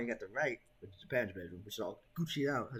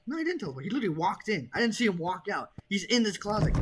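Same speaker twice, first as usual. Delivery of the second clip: scared horror game streamer; 8 semitones higher, 8 dB louder than usual. Real, not acted. Insists man is in closet.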